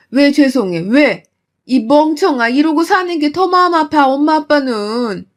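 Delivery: mother berating daughter for her patience; angry scolding. Acted.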